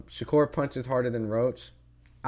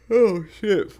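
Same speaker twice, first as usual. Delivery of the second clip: surprised; 10 semitones higher, 8 dB louder than usual. Real, not acted. Reacts right after his yawn.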